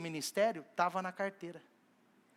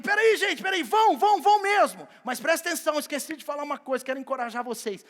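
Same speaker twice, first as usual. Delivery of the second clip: loud, much higher call to stop; calling them back; 5 semitones higher, 7 dB louder than usual. Acted. Jesus calling the departing disciples back, loud high call. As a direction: shout after a departing group.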